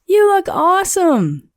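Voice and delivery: high, bright cheer; excited children. Acted. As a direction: cheer it as the kids.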